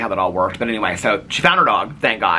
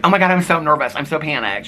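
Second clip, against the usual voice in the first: retold panic; 6 semitones higher than usual. Retells friend's panicked phone call.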